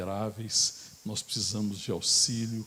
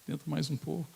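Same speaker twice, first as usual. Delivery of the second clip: mock Jesus; 5 semitones higher than usual. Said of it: "Jesus falou assim".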